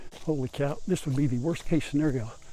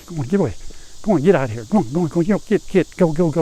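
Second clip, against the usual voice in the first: louder, insistent go on go on; shooing away; 2 semitones higher, 5 dB louder, faster than usual. Real, not acted. Grandpa shoos a yellow jacket from the path, louder and insistent. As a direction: shoo the wasp off with quick, louder repeats.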